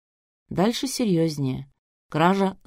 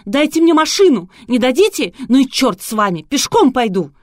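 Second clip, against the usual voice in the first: much higher, much louder furious ranting; raging; 7 semitones higher, 9 dB louder than usual. A narrator's reading. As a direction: storm and shout without stopping. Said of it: "продолжала бушевать".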